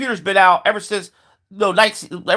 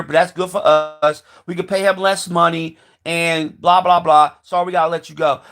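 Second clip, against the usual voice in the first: boss firing someone. Acted. Boss to worker losing the forklift job, lightly acted dismissal. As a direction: play a detached boss letting a worker go.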